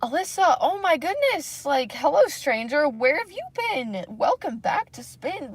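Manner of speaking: high, gushing coworker voice; Kevin's greeting. Retold or imitated. Imitating Kevin welcoming her back to spin class, high and gushing. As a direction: gush like a coworker who missed her. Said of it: "He's just like".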